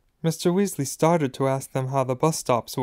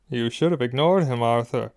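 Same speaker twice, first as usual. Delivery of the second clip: Hagrid. A narrator's reading. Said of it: "said Hagrid".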